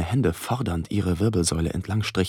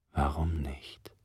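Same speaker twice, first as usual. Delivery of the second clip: leise, langsam geflüstert; langsames Flüstern; 2 semitones lower, 4 dB quieter, slower than usual. Acted. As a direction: behutsam flüsternd nachfragen. Geflüsterte Rückfrage. (langsam geflüstert)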